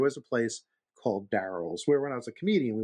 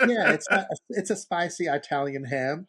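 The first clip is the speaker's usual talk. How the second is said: waitress explaining; 5 semitones higher, 3 dB louder, slower than usual. Retold or imitated. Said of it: "the waitress".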